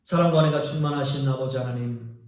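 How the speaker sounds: opening prayer. Real, not acted. Pastor begins prayer to God after the sermon, reverent prayer. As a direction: pray humbly to the Father. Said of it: "기도하겠습니다".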